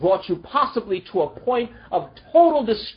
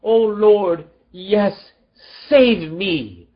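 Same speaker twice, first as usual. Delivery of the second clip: mild cry out; 4 dB louder, slower than usual. Retold or imitated. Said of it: "caused us to cry out".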